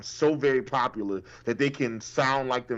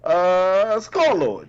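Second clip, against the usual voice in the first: mock dumb reply; 5 semitones higher, 4 dB louder, much slower than usual. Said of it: "you was just like".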